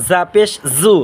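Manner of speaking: জু as a buzzed zu. Shown as a demonstration. Teacher showing viewers za, buzzed z in জু. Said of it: "সামনের নিচে দাঁতের আগা সাথে লাগাইয়া".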